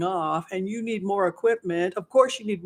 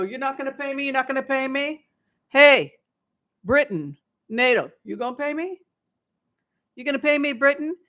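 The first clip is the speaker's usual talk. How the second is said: mocking high whine; 6 semitones higher than usual. Prigozhin shopping for a buyer.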